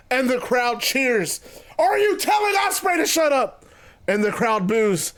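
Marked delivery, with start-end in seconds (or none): 1.8-3.7 high, projected wrestler's question; incredulous Jericho. Acted. Wrestler polls the crowd about his rival, high and incredulous. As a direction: put it to the whole arena, high-pitched.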